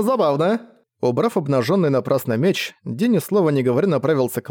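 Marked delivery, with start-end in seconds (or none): 0.0-0.6 high giggly creature voice; amused creature, rising. A narrator's reading. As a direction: savor it with delight. Amused creature repeats word.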